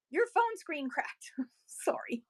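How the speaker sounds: whispered aside. Real, not acted. Whispering an apology to a viewer about a cracked screen. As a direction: drop to a whisper, almost laughing.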